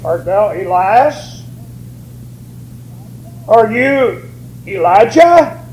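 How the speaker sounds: slow, deliberate pulpit reading of questions and answers; measured preacher quoting scripture. Acted. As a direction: read the verse out with weighted pauses. Reads scripture aloud to congregation.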